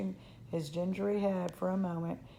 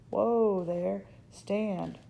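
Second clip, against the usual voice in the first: firm, louder call to a horse; 5 dB louder, much slower than usual. Acted. Cowboy to his spooked horse, calling out. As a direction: call out a sudden command to halt.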